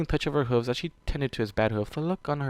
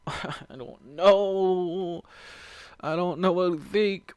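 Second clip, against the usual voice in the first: higher, slow, laughing; helpless laugh; 6 semitones higher, much slower than usual. Real, not acted. Reader unsure what to think, helpless laughter.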